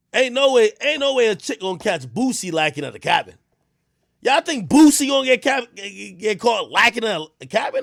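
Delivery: put-on loud, high joking Boston accent; shouting it in a mock Boston accent. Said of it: "that's the Boston accent".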